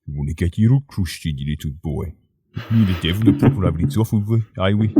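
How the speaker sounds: put-on accented character voice, starting low; Harry Cannab. Host imagines the huntsman taunting a little boy, put-on character voice. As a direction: play a legendary huntsman in a comic local voice. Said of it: "Wonder what it sound like, Harry Cannab. He'd be like".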